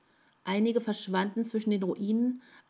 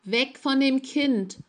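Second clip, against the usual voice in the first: lauter, höherer, langsamer Krächzruf; aufgedreht gekrächzt; 6 semitones higher, 6 dB louder than usual. A narrator's reading. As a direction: ein alter Mann schreit erregt und zitternd. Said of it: "krächzte der alte Traviergeweihte aufgedreht". (alter Geweihter schreit den Fremden an, krächzend laut)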